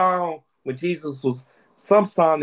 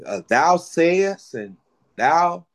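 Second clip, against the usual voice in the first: mock archaic speech; much slower than usual. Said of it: "We don't say".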